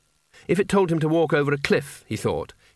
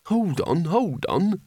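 urgent; 5 semitones higher, slower than usual. Acted. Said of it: "said Rincewind urgently".

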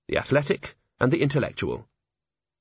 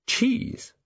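breathy whispered, much higher disbelief; whispered surprise; 13 semitones higher than usual. Acted. Sudden puzzled realization.

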